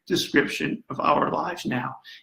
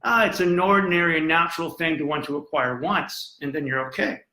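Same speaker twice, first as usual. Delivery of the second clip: lightly dismissive imitation of easygoing advice; mock casual misquote. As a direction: toss it off like a harmless little remark. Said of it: "Machiavelli didn't say".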